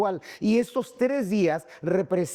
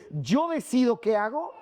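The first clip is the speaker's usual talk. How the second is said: higher-pitched, self-assertive quote; self-willed; 6 semitones higher than usual. Acted. Preacher voicing Saul before he submits, self-willed. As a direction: assert your own control. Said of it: "Del control que él pensaba que tenía".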